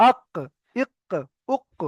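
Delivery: "আক, ইক, উক" spaced out, q from the tongue root; back-of-mouth q in "আক, ইক, উক", one by one; deep qaf. Shown as a demonstration. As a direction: bounce a deep q at the end of each "আক, ইক, উক". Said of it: "জিভের গোড়াটা ওই সোজা উপরের".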